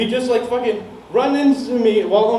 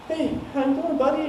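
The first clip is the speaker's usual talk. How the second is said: soft, higher-pitched imitation of soothing cops; very calm; 6 semitones higher, 4 dB quieter than usual. Cops talking to a friend in a manic episode, very calm. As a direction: gently talk someone down, as retold. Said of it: "talking to him very calmly".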